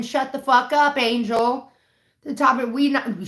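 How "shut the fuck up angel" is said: mock scream. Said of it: "everyone screaming".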